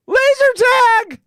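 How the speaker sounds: hammed-up outraged yell; mock alarm. Host mocking the school's overreaction, hammed-up outraged yell.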